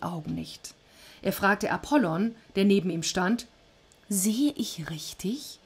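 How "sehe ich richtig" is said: slow, whispered disbelief; stunned whisper. Acted. Zeus looking down to Corinth in stunned whisper. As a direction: whisper it as if you can't trust your eyes.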